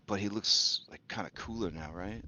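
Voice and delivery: soft, confiding aside in character; whispering to someone. Acted. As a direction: drop your voice as if sharing a secret. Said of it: "she whispers to you".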